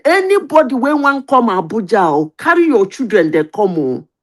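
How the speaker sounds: lightly acted town-crier announcement; public announcer. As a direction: announce it to everybody in Pidgin. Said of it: "they shall say".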